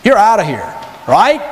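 Satan's voice. Retold or imitated. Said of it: "This is the voice of Satan that whispers in your heart".

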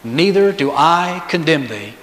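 like speaking kindly to a frightened woman; tender voice. Retold or imitated. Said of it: "in a very tender voice".

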